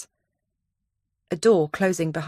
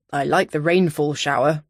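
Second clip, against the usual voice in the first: Donovan voice; 3 semitones lower than usual. A narrator's reading.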